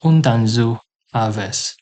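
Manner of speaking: slow "Hundansu haves", leaning on "Hundansu"; careful teaching read; slow question demo. Shown as a demonstration. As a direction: stress the u ending of "Hundansu". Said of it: "you'd say".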